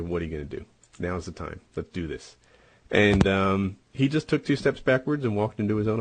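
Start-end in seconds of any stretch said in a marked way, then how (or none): 0.0-2.4 low challenge. Retold or imitated. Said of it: "and I'm like".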